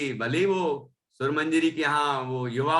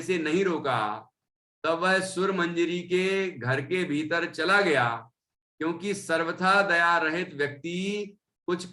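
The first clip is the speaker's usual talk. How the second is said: scripture reading; 2 semitones higher than usual. Acted. Teacher reading out why the women let him in, measured recitation. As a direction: recite the text in measured, sustained phrases. Reads text aloud deliberately.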